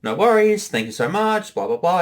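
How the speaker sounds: high, overly cheerful polite voice; mock polite reply. Director retelling polite phone reply, high fake cheer. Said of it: "I'm like".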